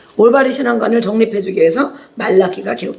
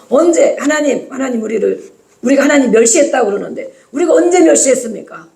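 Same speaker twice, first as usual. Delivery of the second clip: mildly challenging mock protest; acted defiance; 3 semitones higher than usual. The people confronting God over the charge, mild acted defiance. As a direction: push back with an indignant question. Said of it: "막 덤벼".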